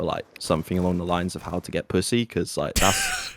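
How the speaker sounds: dry sarcastic boast; deadpan, tongue in cheek. Real, not acted. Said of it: "that was a lot of sarcasm there".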